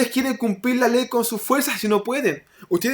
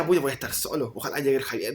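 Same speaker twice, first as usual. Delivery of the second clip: apocado, más grave y bajito; apocado y temeroso; 7 semitones lower, 10 dB quieter, faster than usual. Retold or imitated. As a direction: murmura para ti, con miedo fingido. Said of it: "Tenía miedo, tenía vergüenza". (apocado, en voz baja)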